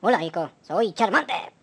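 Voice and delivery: low creature dad saying hello; Charmander voice. Acted. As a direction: growl it gently as a fire lizard.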